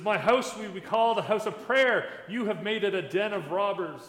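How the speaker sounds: upset Jesus. Retold or imitated. Jesus to the temple traders, upset and loud. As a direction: declaim it forcefully, as an angry rebuke. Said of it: "he gets upset".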